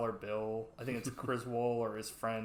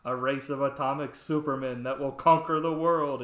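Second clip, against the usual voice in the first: grand horror-villain declaiming, louder and rising; Bela Lugosi; 6 dB louder than usual. Retold or imitated. Quoting Lugosi to his cohost, dramatic booming villain. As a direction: proclaim it like a mad B-movie scientist. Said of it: "Yep, Bela Lugosi".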